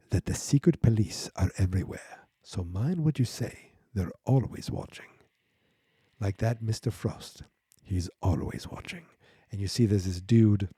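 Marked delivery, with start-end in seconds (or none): 0.1-9.1 a hint of a lowered, softer voice; hushed warning. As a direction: lean in and warn them quietly. And she leans really close to them.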